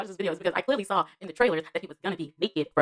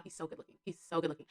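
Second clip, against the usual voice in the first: hushed, near-whispered swoon; 11 dB quieter than usual. Real, not acted. Fan gushing to viewers about an actor, swooning. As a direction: drop to a soft, smitten whisper.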